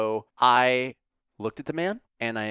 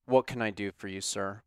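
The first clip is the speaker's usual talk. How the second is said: monotone. Retold or imitated. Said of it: "in his monotone, like, "I wanna kill myself" voice".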